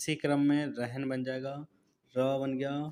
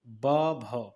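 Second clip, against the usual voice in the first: ब and भ spoken louder and with force; said forcefully; 5 dB louder than usual. Shown as a demonstration. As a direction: push ब and भ out hard. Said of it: "यानी कि जोर से बोल रहे हैं".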